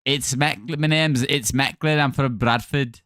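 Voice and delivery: attempted West Yorkshire accent; put-on Bradford voice. Shown as a demonstration. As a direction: introduce yourself in a Bradford accent. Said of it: "try and do your accent".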